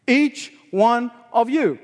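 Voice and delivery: slow "Each one of you" with "Each" punched hardest; stress on each. Shown as a demonstration. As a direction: hit "Each" and slow the whole phrase. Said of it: "the pronoun each here is in the emphatic position".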